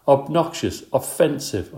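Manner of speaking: squeaky little shout of O words; mild squeak-up yell; small yell. Acted. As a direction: pipe up as loud as a tiny hamster can. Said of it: "I yelled".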